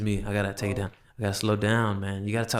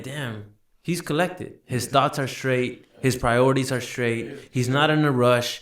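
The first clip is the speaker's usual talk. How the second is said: put-on impressed girlfriend, slow; slower than usual. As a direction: savor each word, unhurried. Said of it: "she's gonna be like".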